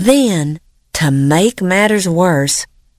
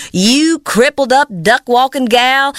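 higher, quick mocking jeer; sneering taunt; 6 semitones higher than usual. Stepmother mocking Blanchette, a quick sneering jeer. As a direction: sneer it down at her.

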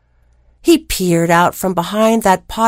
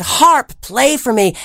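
giant's command; 4 semitones higher than usual. Acted. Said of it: "until the giant said".

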